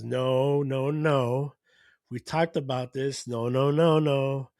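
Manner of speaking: loud, insistent retold refusal; mock firm objection. Official stopping a wrestler's challenge, mock loud objection. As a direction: cut in loudly, imitating an official shutting it down. Official breaking up a ring confrontation.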